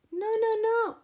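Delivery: high, loud triple no; bossy rooster cutting in; emphatic no. A narrator's reading. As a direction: stop them with a loud no.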